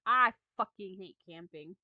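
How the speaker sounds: sudden loud jokey outburst; loud aside. Real, not acted. Reader interrupts own story, loud jokey outburst. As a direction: blurt it out loud, breaking the story.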